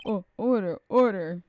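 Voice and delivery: loud, firm call to order; judge's order call. Acted. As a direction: raise it over the courtroom. Judge calling court to order.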